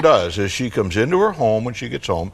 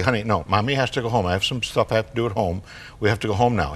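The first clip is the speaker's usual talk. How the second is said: brisk, understated mom voice; matter-of-fact; 4 dB quieter, faster than usual. Acted. Mom turns down a four-year-old's treat, matter-of-fact. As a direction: say it plainly and quickly, softening. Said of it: "Mommy says very matter-of-factly".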